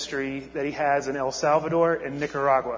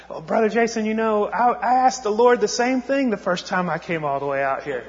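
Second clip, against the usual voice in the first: put-on higher, lightly done Spanish accent, laughing at the end; a friendly mock Spanish accent with a chuckle; imitating a Spanish accent; 6 semitones higher than usual. Carlos answering the pastor on the dirt road, in a light Spanish accent. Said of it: "in his, his Spanish accent".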